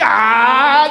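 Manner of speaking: high, loud "ah" of mock laughter; imitated laugh. Mentor laughing at the prospect, mock laugh. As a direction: burst into a put-on laugh. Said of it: "Then he laughs".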